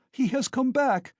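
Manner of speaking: high, loud, furious tirade at a husband; wife berating her drunk husband in a frenzy; frenzied accusing. A narrator's reading. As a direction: tear into him, demanding the money. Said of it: "she cried out in a frenzy".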